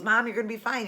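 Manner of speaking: mild retold comforting; reassuring. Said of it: "trying to help me feel better".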